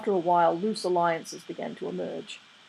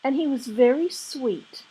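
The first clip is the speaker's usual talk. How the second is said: wistful; 7 semitones higher, 4 dB louder than usual. A narrator's reading. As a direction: drift into a fond memory. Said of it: "said Mary Hodges wistfully".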